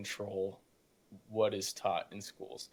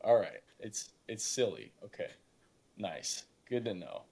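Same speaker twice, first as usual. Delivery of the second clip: sarcastic acceptance. Retold or imitated. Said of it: "I went".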